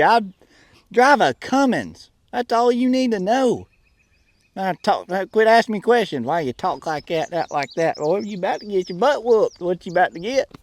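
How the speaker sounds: put-on grumbling country boy with a Southern accent; testy redneck character, Southern accent. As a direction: scold him in a thick Southern accent.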